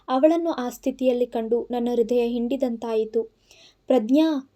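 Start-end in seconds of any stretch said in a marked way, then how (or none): 3.9-4.5 mild anxious call of her name. Acted. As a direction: cry out her name, understated. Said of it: "ಎಂದು ಕೂಗುತ್ತಲೇ". (ಹಗುರವಾದ ಆತಂಕದ ಕೂಗು)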